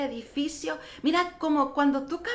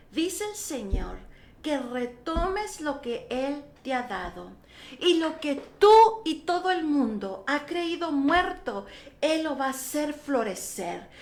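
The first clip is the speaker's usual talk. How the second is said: slow, measured proclamation with weighted words; lightly voiced pastor delivering God's word; retold prophetic declaration. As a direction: declare it slowly and deliberately.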